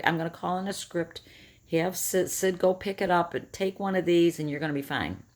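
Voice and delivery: a mock-soothing doctor brushing off the worry; calm doctor. Doctor on speakerphone dismissing her panic, mock calm. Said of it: "she very calmly says".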